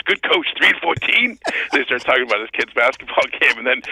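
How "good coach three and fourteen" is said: a hint of mock disbelief, higher; lightly voiced radio host; incredulous Francesa. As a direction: echo it back doubting. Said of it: "And Francis goes".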